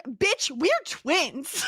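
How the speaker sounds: slow, sarcastic correction; deadpan mock quote. Mocking the movie twins to her cohost, slow sarcastic quote. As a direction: drag it out, mock-exasperated.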